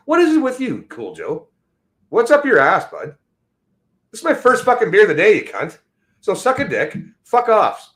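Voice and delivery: high, loud furious yell at a heckler; angry yelling. Real, not acted. Streamer yelling at chatter Cool Joe, angry shout. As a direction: tear into him, really shouting.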